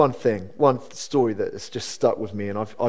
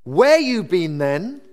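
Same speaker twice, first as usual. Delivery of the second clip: put-on drawn-out, louder Welsh accent, swooping high; 6 semitones higher, 5 dB louder, slower than usual. Officious lady confronting girl back after months away, condemning Welsh accent. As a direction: imitate a condemning Welsh busybody, very slowly. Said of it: "That was Welsh accent".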